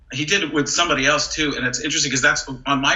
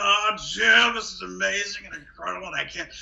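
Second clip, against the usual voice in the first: excited Jim Nantz call; Jim Nantz yelling; 5 semitones higher than usual. Retold or imitated. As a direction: yell the name then trail off. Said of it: "He'll be like".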